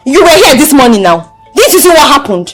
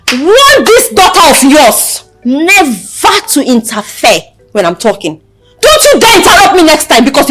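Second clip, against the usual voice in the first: measured, angry threat; stern warning. Acted. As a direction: lay down the law deliberately. Warns sister off through mother.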